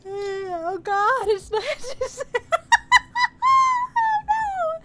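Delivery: loud high yawn swallowing the words. Real, not acted. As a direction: yawn right through it, loud. Yawn breaks into loud cry.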